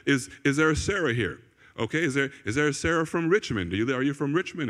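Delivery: tentative, conversational questioning; low-key inquiry. Retold or imitated. Prophet looking for Sarah in the meeting, low-key inquiry. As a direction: ask gently around the room, no proclamation. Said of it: "he has a different kind of approach".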